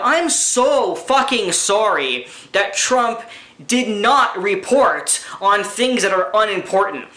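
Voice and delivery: slow, sneering fake sorry; sarcastic apology. Vlogger mocks Democrats and media with a sneering apology.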